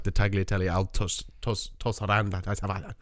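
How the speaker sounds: slow, muddled go at TOSARANDA, restarting on TOS; garbled Italian. Real, not acted. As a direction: stumble low through TAGLIATELLE AL TOS, then garble TOSARANDA. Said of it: "You have a stroke when you're saying it".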